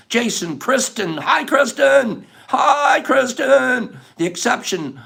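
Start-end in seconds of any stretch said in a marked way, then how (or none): 1.2-2.3 slow, high, drawn-out hello; stretched greeting. Real, not acted. Greeting a viewer in chat. 2.5-4.0 shouted greeting. Real, not acted.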